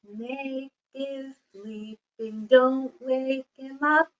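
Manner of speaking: soft, slow sung lullaby; whispering over a crib. Shown as a demonstration. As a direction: hush the song so nobody wakes. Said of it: "Now we're very quiet".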